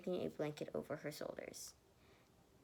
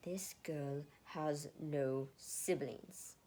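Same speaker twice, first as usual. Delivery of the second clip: slow menacing statement; much slower than usual. Acted. Ned staring Lucas down, cold and menacing. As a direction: say it slowly and coldly. Ned, tall male, grabs tunic.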